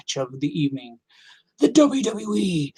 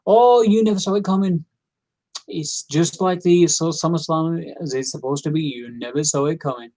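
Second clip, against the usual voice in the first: imitating Michael Cole. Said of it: "Michael Cole said".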